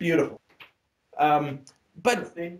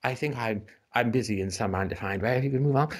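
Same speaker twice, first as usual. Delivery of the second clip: icy British politeness; 5 semitones lower than usual. Retold or imitated. The poet icily dismissing the pompous visitor, cold and polite. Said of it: "with that icy British mace of".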